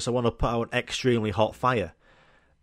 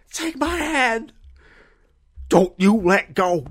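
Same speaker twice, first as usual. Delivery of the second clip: high, slow, straining heroic cry; hammed-up desperate rescuer; heroic Samwise rescue; 11 semitones higher, 6 dB louder, slower than usual. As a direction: call out like Sam saving Frodo from the lava.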